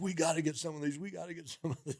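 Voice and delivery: acted, high-pitched words squeezed out through laughter. Retelling someone's reaction to a catalog page: imitating someone laughing hard. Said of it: "He was laughing so hard".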